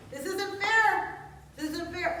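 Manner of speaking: high, slow, wailing complaint; panicked whining. Retold or imitated. Preacher mimicking a panicked believer, high wail. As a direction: mimic a frightened person crying out.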